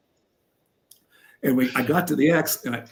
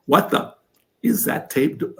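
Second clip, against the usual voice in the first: angry coach; 4 semitones higher than usual. Retold or imitated. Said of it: "If he would say that word, he is serious".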